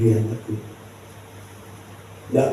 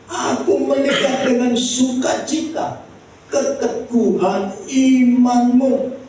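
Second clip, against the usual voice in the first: high, emphatic scripture quote; quoting Paul; 11 semitones higher than usual. Retold or imitated. Preacher quoting Paul to the congregation, proclaiming. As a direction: proclaim the verse, stretching the last words. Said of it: "dia bilang begini".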